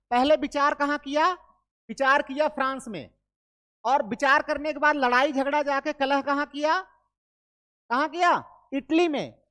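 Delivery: teacher hamming up a story so students remember; lively mnemonic storytelling. Acted. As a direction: sell the memory trick with energy. Teacher dramatizing memory trick.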